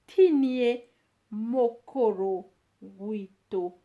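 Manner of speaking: tinie mokoro wito drawn out slowly, MOkoro stressed; slow model phrase. Shown as a demonstration. Teacher to learners, slow careful model of the answer. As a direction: sound out mokoro wito syllable by syllable. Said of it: "teacher models answer".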